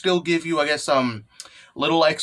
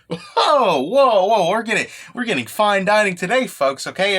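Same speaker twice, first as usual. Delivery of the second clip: excited anime fan; 5 semitones higher than usual. Real, not acted. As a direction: gush over the good chapter. Hyped about fine dining chapter.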